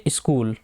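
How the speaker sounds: स्कूल बोले इस्कूल, शुरू में हल्की ई की आवाज़; स्कूल में पहले छोटी इ जोड़कर बोलिए; iskool with i sound. Shown as a demonstration. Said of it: "ई की साउंड आ रही है". (स्कूल का उच्चारण इस्कूल जैसा)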